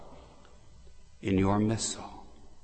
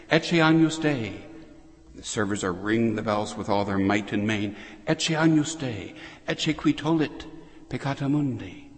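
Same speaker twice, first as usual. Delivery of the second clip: raised, ringing priestly chant-like call; liturgical proclamation. Acted. Priest at Mass presenting the Lamb of God, proclaiming. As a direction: lift the host and proclaim.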